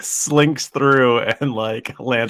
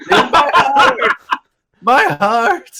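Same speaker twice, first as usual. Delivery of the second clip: high, loud satyr wail; hammed-up agony; 6 dB louder, much slower than usual. Satyr fallen on the ground, hammed-up agonised cry. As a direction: cry out in mock heart-attack distress.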